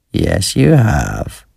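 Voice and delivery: put-on creepy old man hissing slowly; hissed. A narrator's reading. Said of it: "hissed in my ear".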